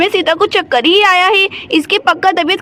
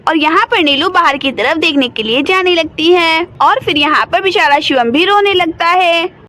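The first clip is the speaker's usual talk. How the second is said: lower, even storyteller voice reading the scene; story narration; 3 semitones lower than usual. A narrator's reading. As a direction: narrate the action calmly between the scenes. (कहानी सुनाने वाली आवाज़)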